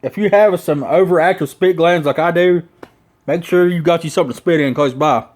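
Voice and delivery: talking around a full lip of dip. Real, not acted. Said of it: "I can't even talk 'cause it gets".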